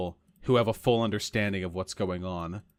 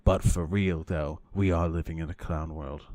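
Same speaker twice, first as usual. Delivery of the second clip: pundit impression; 4 semitones lower than usual. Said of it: "he's gonna say, like".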